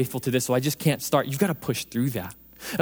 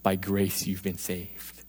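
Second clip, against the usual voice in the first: God answering; 8 semitones lower, 5 dB quieter than usual. Retold or imitated. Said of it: "He goes".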